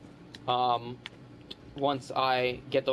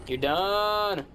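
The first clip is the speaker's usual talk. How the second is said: victory taunt; 5 semitones higher than usual. Real, not acted. Finishing off an enemy.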